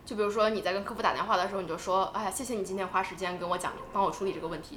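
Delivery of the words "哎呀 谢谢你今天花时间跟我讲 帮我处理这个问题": soft, lower, heartfelt thank-you; demonstrating earnest gratitude, voice lowered; sincere thanks. Shown as a demonstration. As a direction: thank the agent gently and sincerely. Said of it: "就是你要非常真诚地说".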